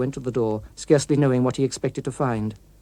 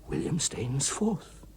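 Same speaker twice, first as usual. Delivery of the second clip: stunned; 10 dB quieter, much slower than usual. Acted. Walter stunned recognising the name.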